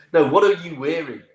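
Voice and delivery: high, loud South African incredulity; South African accent. Retold or imitated. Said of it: "forgive my accent here".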